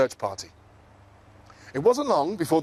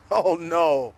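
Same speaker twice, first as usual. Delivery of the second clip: yelled; 2 semitones higher than usual. Acted. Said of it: "they all yelled".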